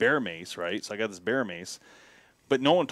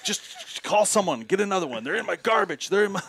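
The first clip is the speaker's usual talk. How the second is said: a pitched-up, slowed-down Canadian local; imitating Canadian locals; 8 semitones higher than usual. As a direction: mimic a casual local who shrugs off bears. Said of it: "They're like".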